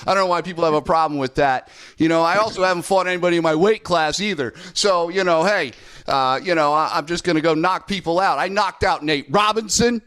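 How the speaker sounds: a hammed-up hint of a cocky Jake Paul bragging about his record; Jake Paul imitation. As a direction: play a swaggering trash-talking YouTuber, half joking. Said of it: "I'll do my Jake Paul imitation".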